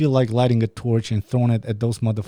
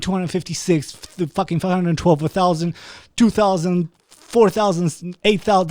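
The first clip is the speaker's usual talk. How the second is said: higher and louder, hammering each doubled number; real frustration counting up fast; exasperated counting; 7 semitones higher, 4 dB louder than usual. Real, not acted. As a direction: count it out in disbelief, voice climbing.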